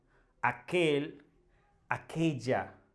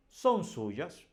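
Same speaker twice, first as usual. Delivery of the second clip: SON SUYAS said higher, each word set out; emphatic son suyas; 4 semitones higher than usual. Shown as a demonstration. Teacher modelling the plural for learners, emphatic. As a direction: stress both words of "Son suyas". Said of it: "I'm making emphasis over there".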